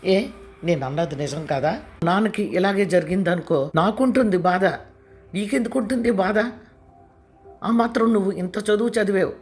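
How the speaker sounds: angry outburst. A narrator's reading. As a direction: build to a furious peak. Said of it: "అంది కోపంగా".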